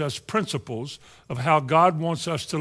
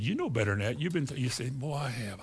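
quiet inner exchange; 6 dB quieter than usual. Retold or imitated. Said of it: "You said".

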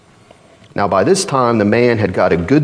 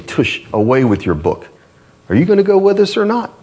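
fast, higher scornful brush-off; mocking scoffer; 7 semitones higher than usual. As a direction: sneer it off quickly. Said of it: "they'll say".

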